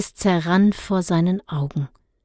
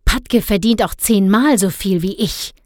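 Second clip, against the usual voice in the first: grumbling; 4 dB louder than usual. Acted. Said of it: "moserte Herr Blauberg".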